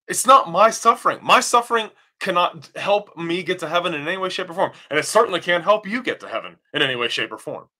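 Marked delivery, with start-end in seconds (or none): 0.1-3.9 emphatic denial. Real, not acted.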